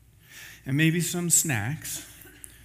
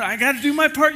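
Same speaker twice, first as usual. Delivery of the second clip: much higher and louder, panicked yell; frantic shout; 10 semitones higher, 7 dB louder, faster than usual. Retold or imitated. Seatmate pushes his effort on the plane, frantic high shout. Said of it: "the guy next to you is like".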